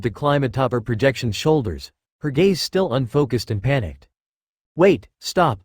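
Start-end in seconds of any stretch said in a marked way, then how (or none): 4.7-5.6 exclaiming. Acted. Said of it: "the first wielder exclaimed".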